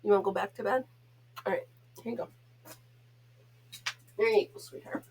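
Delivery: tucking her dog back into bed softly; tender to dog. Real, not acted. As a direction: settle the dog back in gently. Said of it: "I know I'm a goof with him".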